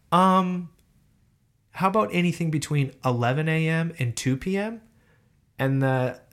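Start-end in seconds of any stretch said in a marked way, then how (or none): 0.1-4.8 lightly voiced phone assistant, a little higher; a hint of a polite booking assistant; automated assistant voice. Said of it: "the automated voice goes".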